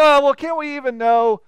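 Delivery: dismissive shrug. Retold or imitated. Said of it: "And so".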